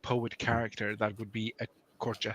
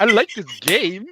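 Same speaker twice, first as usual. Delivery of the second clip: put-on Southern accent; 6 semitones higher, 7 dB louder than usual. Joining the Southern accent game.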